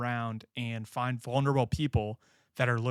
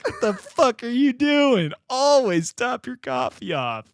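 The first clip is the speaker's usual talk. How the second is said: loud, slow, higher grandpa scolding; louder mock grandpa rant; imitating grandpa; 11 semitones higher, 6 dB louder than usual. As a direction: bark it like an outraged old man.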